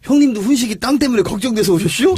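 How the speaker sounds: Chungcheong dialect. Retold or imitated. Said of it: "예를 들어서 하나 해주세요".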